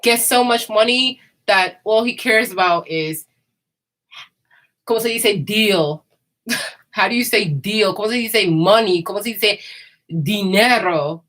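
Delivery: lightly voiced money-obsessed Brooklyn broker; mock the broker asking how to say deal; a hint of a Brooklyn dealmaker, half-joking; imitating the Brooklyn broker. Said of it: "that's the way he talks to me".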